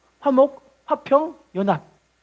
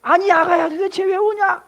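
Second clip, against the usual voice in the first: kind father-in-law; 8 semitones higher than usual. Retold or imitated. Father-in-law asking his crying daughter-in-law why. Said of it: "시아버지가 물어봅니다".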